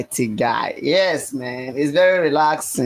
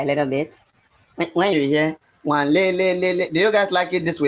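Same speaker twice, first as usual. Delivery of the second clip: a little higher; 2 semitones higher than usual. Shown as a demonstration. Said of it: "Let me make it a little bit high".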